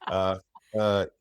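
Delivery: halting stammering tech boss voice; Elon Musk. Acted. Impressionist answering the host as the tech boss. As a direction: lots of hesitant yeahs and ums. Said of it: "do you do Elon?".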